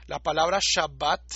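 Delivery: Shabbat said with a clear sh sound; Hebrew pronunciation. Shown as a demonstration. Teacher shows the Hebrew sh in Shabbat. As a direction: Shabbat with sh and a rising tune. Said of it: "el ejemplo clásico es".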